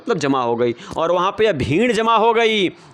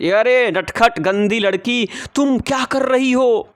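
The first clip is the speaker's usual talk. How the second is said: mother's raised scolding voice; mother telling off her little girl, raised and scolding; 5 semitones higher than usual. Retold or imitated. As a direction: scold the naughty girl, pitch lifted.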